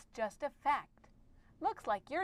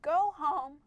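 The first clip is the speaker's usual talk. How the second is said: higher, firmer order; urgent command; 4 semitones higher, 4 dB louder than usual. Shown as a demonstration. Reader showing one of two ways to read a command, urgent. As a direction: give it as an urgent exclaimed order. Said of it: "they can be read two different ways".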